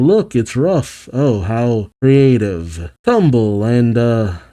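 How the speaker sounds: slow, dry sarcasm with a laugh slipping in; drawn-out mock-bored announcer; unenthusiastic Amy. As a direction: sound unimpressed by the entries. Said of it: "Amy's less than enthusiastic".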